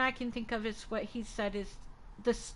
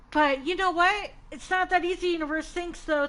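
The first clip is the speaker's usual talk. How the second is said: sarcastic; 5 semitones higher, 6 dB louder than usual. Real, not acted. Frustrated at the tarot message.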